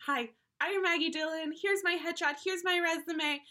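lightly voiced eager self-pitch; auditioning spin doctor. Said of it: "every time you went into audition".

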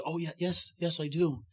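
a frazzled grandma answering a firefighter; frightened old lady. Retold or imitated. Frightened elderly woman telling him yes.

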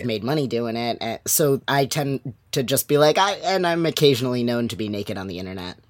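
hoarse from yelling all week. Real, not acted. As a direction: voice worn rough and hoarse. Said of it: "which is why I sound like this".

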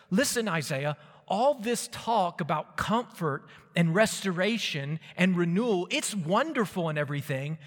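sceptical exiles. Pretend. Babylon's exiles answer Isaiah's promise of comfort, mild protest. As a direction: object insistently, pitch lifted. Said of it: "they might say something like this".

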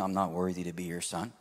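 low, quick recital of a prepared apology; reading aloud. Retold or imitated. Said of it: "So he starts reading".

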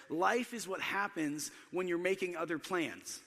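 famous saying, slowly spaced out; measured, unhurried quotation; slow, deliberate quote. Shown as a demonstration. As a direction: deliver the saying slowly, phrase by phrase. Famous phrase quoted, then repeated plainly.

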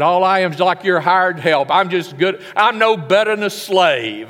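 self-pitying whine. Retold or imitated.

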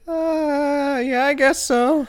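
put-on high, hesitant little kid; child voice. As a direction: talk like a small kid. Plays a six-year-old kid.

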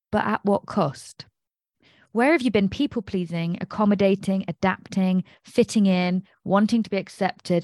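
measured read-aloud of a written piece; deliberate, evenly phrased recital. Real, not acted. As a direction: read your own journal entry out to listeners. Reads out own journal entry.

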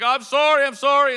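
high loud flustered sorry; a hint of a panicked roommate; sheepish apology. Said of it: "he's like".

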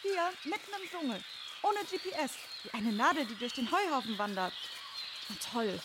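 distant, fast quarrel approaching; grumbling from off in the distance; arguing far off. Acted. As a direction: keep it far away, then closer. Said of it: "Da streitet jemand".

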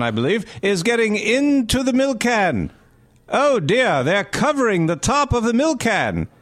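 hammy vintage newsreel narrator; old newsreel. Acted. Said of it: "the old newsreel button".

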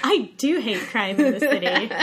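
laughing while talking; giggling through the words. Real, not acted. Joking, laughing through the line.

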